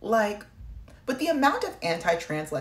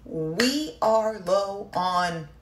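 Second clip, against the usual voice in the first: mocking the military. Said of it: "they are saying".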